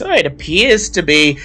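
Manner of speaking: high and fast, brisk librarian. Acted. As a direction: rattle it off officially. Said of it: "she says".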